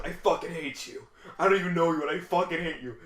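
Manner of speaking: half-joking furious complaint; mock angry rant. Coworker's mock outburst.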